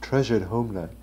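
hammed-up Native American chief voice; a light put-on Native American accent; mock Native American accent. Friends joking on a podcast, in a mock Native American accent. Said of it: "That's a good Native American accent".

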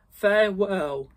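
Marley's ghost calling out as he leaves. Acted. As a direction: call it out as you drift away. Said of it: "he called".

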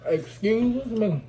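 very slow, high "Excuse me"; drawn-out excuse me. Acted. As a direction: stretch out "Excuse me" slowly. Repeats it drawn out.

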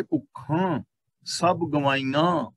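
ਭੁੱਖਾਂ with a nasalised final aa, drawn out; nasal final vowel. Shown as a demonstration. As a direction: slowly show ਭੁੱਖਾਂ ending through the nose. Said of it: "ਤੇ ਬੋਲਾਂਗੇ".

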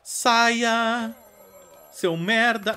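high angry yell; shouting someone out. Pretend. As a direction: bark them out of the house. Throwing someone out again.

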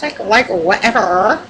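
lightly put-on "whatever" talk; a touch of mock ditziness with a lilting end; mock airhead voice. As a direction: imitate an airhead, toned down. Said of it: "I normally don't talk like that".

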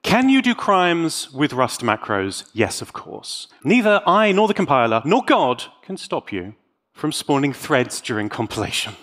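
usual speaking voice

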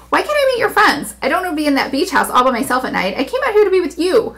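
put-on high, pouty young woman; pouting starlet. A narrator's reading. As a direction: whine it like a spoiled toddler. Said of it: "Her pout was as extreme as a toddler's".

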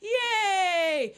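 high, loud, drawn-out over-the-top cheer; gushing, sarcastic-sounding excitement; children's presenter cheer. Acted. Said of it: "like you're a children's television presenter".

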